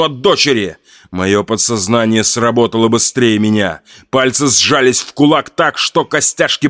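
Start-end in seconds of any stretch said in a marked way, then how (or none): none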